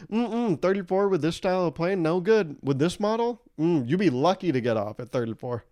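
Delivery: mock a smug armchair aviation expert; know-it-all passenger. Comic mocking a smug passenger, tutting up high.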